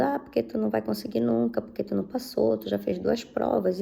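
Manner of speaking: a hint of a sneering tempter; mock enemy voice. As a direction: imitate the enemy's taunting whisper in her head, mildly. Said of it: "aquilo veio falando".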